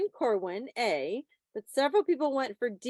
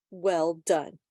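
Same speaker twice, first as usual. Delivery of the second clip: whispered praise; 5 semitones lower than usual. Real, not acted. Host whispering praise to the students. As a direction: whisper it, no voice at all.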